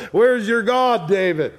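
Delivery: taunting. Acted. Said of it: "Absalom or the people or Shimei".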